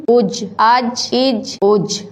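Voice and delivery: slow اج with the ج bouncing out in a small echo; qalqalah on اج. Shown as a demonstration. Teacher showing a child the qalqalah echo on اج. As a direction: let the ج of اج rebound slowly. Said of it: "یہاں ہم کلکلہ کریں گے".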